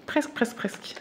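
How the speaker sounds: de plus en plus bas jusqu'au souffle; s'éteignant. Real, not acted. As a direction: laisser mourir le mot. Répète en s'éteignant. (elle répète « presque » de plus en plus doucement)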